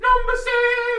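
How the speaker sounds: long, high drawn-out shout; announcer shout. Acted. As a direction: boom it out like a game show host. Announcing the next countdown entry.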